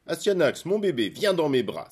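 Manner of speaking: put-on a father calling out to his baby; exclaiming. A narrator's reading. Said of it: "s'exclama Hector".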